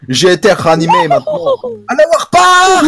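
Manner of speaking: high silly game voice; high put-on voice. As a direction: squeak it out.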